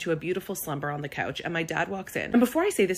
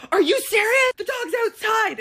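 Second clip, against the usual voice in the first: much higher, louder incredulous yell; exasperated outburst; 8 dB louder than usual. Retold or imitated. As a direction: let him have it in disbelief. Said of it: "I go".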